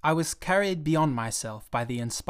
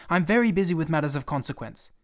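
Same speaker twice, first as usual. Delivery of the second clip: busy snap; 3 semitones higher, 5 dB louder than usual. Acted. Pilot snaps he is busy.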